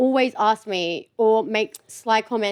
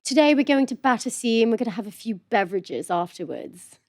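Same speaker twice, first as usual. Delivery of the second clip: put-on lightly done posh English accent, a touch of a plummy Londoner; mock posh English; 3 semitones lower, 4 dB quieter than usual. Sister mocks how Australians hear Londoners, light posh English accent. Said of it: "the kind of posh".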